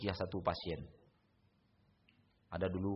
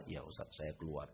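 much softer, meek fake surrender; jinn pretending to leave, meeker; 5 semitones lower, 10 dB quieter than usual. Jinn fakes leaving to fool the ustadz, soft meek voice. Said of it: "pura-pura keluar dari badan".

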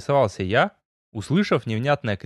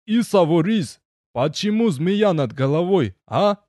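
gnome voice; 5 semitones higher than usual. A narrator's reading. Gnome asks about the snake.

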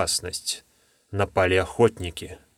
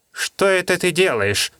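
suspicious, worried; 8 semitones higher than usual. Acted. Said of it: "подозрительно и с явным беспокойством".

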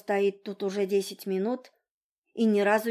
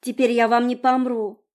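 defiant; 3 semitones higher, 6 dB louder than usual. Acted. Girl defiant.

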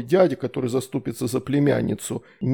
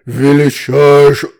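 slow, very loud demon voice; thundering slow monster roar; booming demon roar; 12 dB louder, much slower than usual. A narrator's reading. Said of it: "раздался грохочущий рёв".

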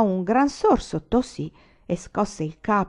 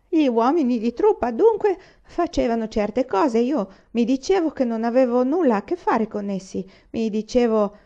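put-on drunk lieutenant; 3 semitones higher, 3 dB louder than usual.

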